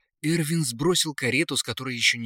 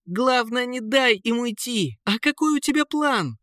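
high, urgent prince calling out; calling over wind; 12 semitones higher than usual. A narrator's reading. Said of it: "перекрикивая шум ветра, ответил принц". (высоко, перекрикивая ветер)

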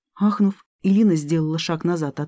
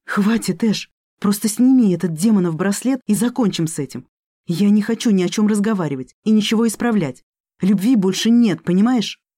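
loud hoarse plea, raised pitch; hoarse outburst; 4 semitones higher, 4 dB louder than usual. Acted. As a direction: shout it raggedly in despair. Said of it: "прохрипела".

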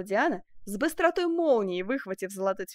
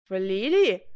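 startled exclamation; 7 dB louder, slower than usual. A narrator's reading. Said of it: "воскликнул король".

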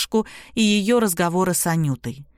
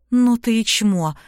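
slow, biting insult spat at him; girl turns on the boyfriend in anger; angry voice; 3 semitones higher than usual. Acted. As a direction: contempt dragged out word by word. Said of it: "злой голос девушки".

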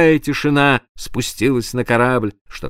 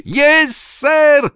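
put-on high, thin childlike squeak; frightened thin voice; 4 dB louder than usual. A narrator's reading. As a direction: answer like a scared child. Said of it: "испуганно тоненьким детским голоском".

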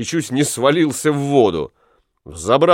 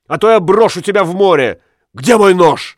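higher, louder, rushed threat; threatening rage; 6 semitones higher, 5 dB louder than usual. Acted. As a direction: threaten wildly. Husband threatening in jealous rage.

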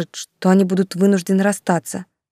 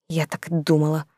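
softer, sighing, a little crushed; dejected sigh; 4 dB quieter than usual. Acted. Yulka sighs dejectedly to Anvar, having guessed already. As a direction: let it out on a sigh of defeat. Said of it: "сокрушённо вздохнула она".

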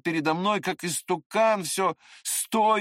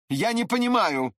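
stern and grave; 5 semitones higher, 4 dB louder than usual. A narrator's reading. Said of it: "строго и важно произнёс он".

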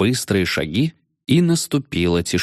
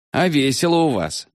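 nervous giggle; 7 semitones higher than usual. Acted. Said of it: "нервно хихикнул воробей".

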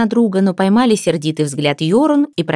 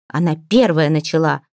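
ordinary delivery, nothing marked

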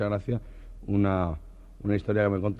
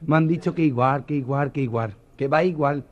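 higher camp gossip; 4 semitones higher, 4 dB louder than usual. Acted. The friends gushing over the procession, higher and camp. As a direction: gush like the girls.

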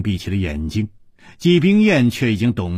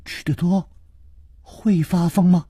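higher, feigned fright; staged alarm, pitched up; mock alarm; 7 semitones higher than usual. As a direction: pretend to be shocked. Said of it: "楚留香故意骇然说".

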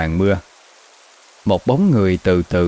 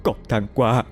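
soft start rising to a high wail; grieving lament; 8 semitones higher, 3 dB quieter than usual. Acted. Widow lamenting over her husband's coffin, rising high wail. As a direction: pour out grief, voice climbing. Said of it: "miệng cứ lẩm bẩm".

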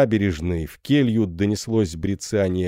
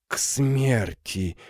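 slow repetition; 4 semitones higher, much slower than usual. Acted. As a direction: let «К смерти!» sink in slowly. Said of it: "медленно повторила она". (медленно и тихо: «К смерти!»)

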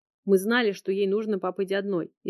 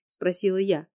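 plain reading voice

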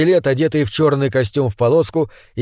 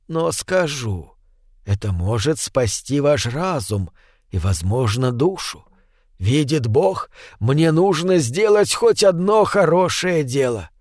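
almost tender; slower than usual. Acted. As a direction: gently confess a painful truth. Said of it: "и голос был почти нежным".

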